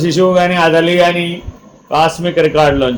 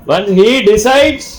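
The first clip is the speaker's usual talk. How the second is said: very slow emphatic; 3 semitones lower, much slower than usual. Acted. Preacher stresses divine decree.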